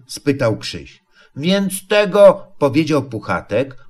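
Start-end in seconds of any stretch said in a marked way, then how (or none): 1.4-2.5 slow, high, groping start; drawn-out higher-pitched lead-in; hesitant explaining. A narrator's reading. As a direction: begin uncertainly, stretching the words. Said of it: "nie tłumaczy się dość jasno".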